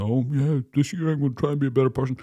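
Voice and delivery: fast, breezy influencer voice; mild mock of an earnest influencer. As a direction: rattle it off like a smug influencer. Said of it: "and they go".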